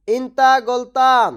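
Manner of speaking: ইনতা গলতান slow and clear; slow repeat. Shown as a demonstration. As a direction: say ইনতা গলতান slowly for learners. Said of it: "এর আরবি হবে". (ধীরে স্পষ্ট উচ্চারণ)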